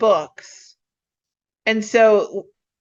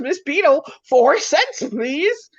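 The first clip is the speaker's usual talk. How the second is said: raised, insistent clerk's voice; retold payment demand; 5 semitones higher than usual. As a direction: call out the price, pitched up and rising.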